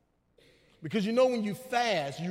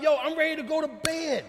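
lightly voiced protest, pitched higher; a hint of the tired flesh, higher pitched; the flesh talking; 5 semitones higher than usual. Tired flesh answering God's call, lightly voiced and higher. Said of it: "In your flesh, you're like".

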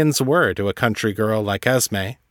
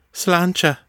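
lilting Irish toast, raised pitch; 8 semitones higher than usual. Acted. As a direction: raise a glass, Irish lilt. Esme toasting with whiskey.

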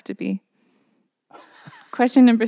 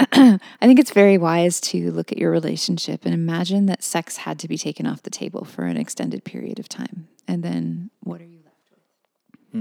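mock therapist. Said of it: "We're switching roles here".

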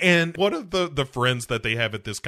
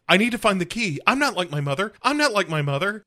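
mock ranting; 8 semitones higher, much faster than usual. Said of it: "her just shouting".

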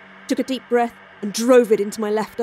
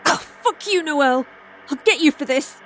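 sputtering foiled villain; 5 semitones higher than usual. Acted. Foiled Starla curses her.

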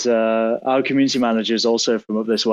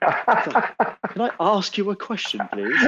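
slow, higher, mock-posh request; posh English accent; 9 semitones higher, slower than usual. Teasing friend with an over-polite question, mock-posh accent. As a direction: put on a posh accent to ask, drawn out. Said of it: "That's a posh fucking".

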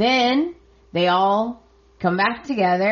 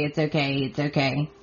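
soft reassurance; 3 semitones lower, 5 dB quieter, faster than usual. Retold or imitated. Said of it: "Steffi assures her that it's okay".

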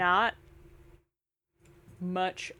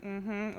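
sad noise; 8 dB quieter than usual. Retold or imitated. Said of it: "And I'm like".

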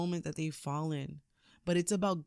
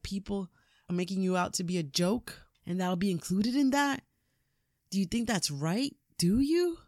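accusing son; 3 semitones higher than usual. Retold or imitated. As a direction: build the challenge until the last question is nearly shouted. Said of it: "his son goes".

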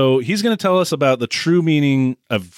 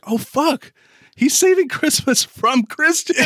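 laughing. Real, not acted. Laughing realization about the movie.

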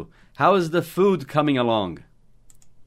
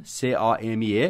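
spelled out letter by letter; 2 semitones lower, slower than usual. Shown as a demonstration. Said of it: "spelling the verb".

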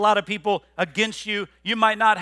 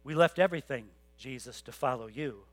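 much softer, lower, We left everything said humbly; quiet and sincere; 7 semitones lower, 8 dB quieter than usual. Retold or imitated. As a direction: hush it down, a real confession. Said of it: "No, he says".

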